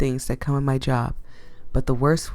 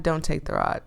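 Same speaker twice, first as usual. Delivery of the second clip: dropped to a softer voice, hesitant; softer self-correction; quieter second thought; 5 dB quieter than usual. Acted. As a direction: mutter the doubt under your breath. Dithering over taking the rod.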